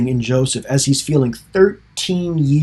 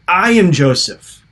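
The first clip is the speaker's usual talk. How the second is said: higher, louder cry of revelation; mock sobbing outcry; 5 semitones higher, 5 dB louder than usual. Preacher acts a sobbing Joseph facing his brothers, mock outcry. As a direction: burst out with it, imitating an overcome man. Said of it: "he's sobbing".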